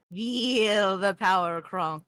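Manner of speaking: drawn-out dramatic villain line; slow dramatic villain. Acted. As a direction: savor each word like a cartoon villain. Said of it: "Can you say".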